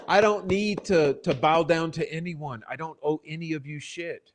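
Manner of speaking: loud, high, defiant declaration; defiant outburst. Real, not acted. Streamer telling off critics, loud and defiant. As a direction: raise the voice and refuse to back down.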